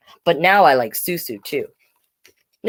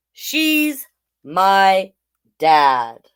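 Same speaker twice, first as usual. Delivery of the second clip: loud and proud; much slower than usual. Acted. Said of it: "I loudly and proudly say".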